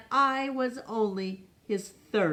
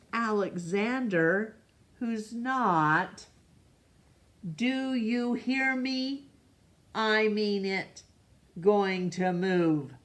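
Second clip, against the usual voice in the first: stern parent calling; 3 semitones higher than usual. Acted. Voicing a parent calling Alexander.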